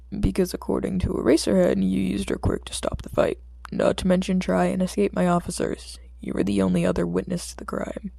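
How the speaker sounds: put-on detective confronting the boy; stern detective. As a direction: lay out the evidence hard. Detective lays out the facts.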